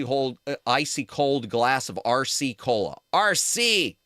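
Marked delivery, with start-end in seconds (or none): 3.1-4.0 excited cheer. Real, not acted. Cheering his favourite cola.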